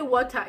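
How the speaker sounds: water as "WAW-tah", no final R; home-country pronunciation. Shown as a demonstration. Showing the word from back home, water pronounced "WAW-tah". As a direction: say water like "wota". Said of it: "it doesn't even sound right".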